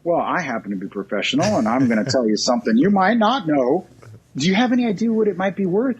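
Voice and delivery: professional advisor voice. Shown as a demonstration. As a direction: sound like a trusted professional, not a salesman. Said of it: "and I'm doing this like".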